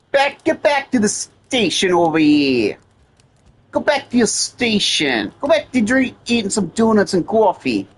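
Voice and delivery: put-on old-time mafia Jersey accent; New Jersey accent. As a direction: heckle them in a Jersey mobster accent. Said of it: "I like to do a New Jersey accent".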